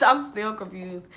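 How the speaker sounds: little laugh, then confused repeat. Real, not acted.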